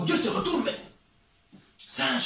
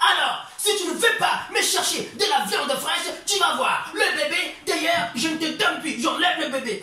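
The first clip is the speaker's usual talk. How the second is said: mock threat; 5 semitones higher than usual. Wife threatens to take baby.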